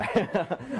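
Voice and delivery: brief amused chuckle; short chuckle. Real, not acted. Lecturer to class after offering to bring it in, short chuckle.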